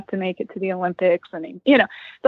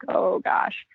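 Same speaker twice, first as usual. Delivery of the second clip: whisper; 2 semitones lower, 5 dB quieter than usual. Retold or imitated. Panicking as he approaches.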